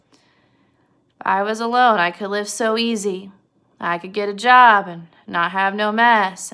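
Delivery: slow, half-hearted recital; half-hearted George. Retold or imitated. George going through his old complaint, half-heartedly. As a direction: recite it slowly without conviction. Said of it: "very half-heartedly was like".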